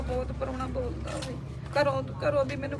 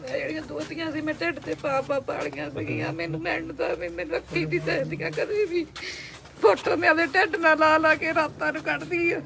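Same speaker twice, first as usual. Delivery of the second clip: crying. Real, not acted. Mother telling how she raised her granddaughters, crying. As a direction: pour out the grief through tears. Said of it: "ਨਾ ਰੋਵੋ, ਨਾ ਰੋਵੋ".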